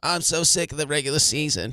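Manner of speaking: mocking, mimicking voice. Asking a third speaker how often this was said: mocking imitation of the other speaker. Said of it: "how many times did he say that".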